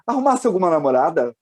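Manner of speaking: a hint of a prying mother's question; mãe interrogando. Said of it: "E ela falou assim". (leve imitação da mãe perguntando)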